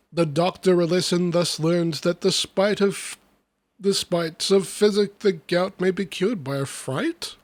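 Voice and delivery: lively, rhythmic storybook reading; verse recitation. Acted. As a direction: read the rhyming tale with bounce. Reads comic verse aloud.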